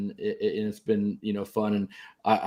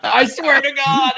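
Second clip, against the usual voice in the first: much higher, slow, emphatic; insisting; 8 dB louder, much slower than usual. Real, not acted. Insisting to his friends the story is true, high and slow. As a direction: swear it's true, drawn out.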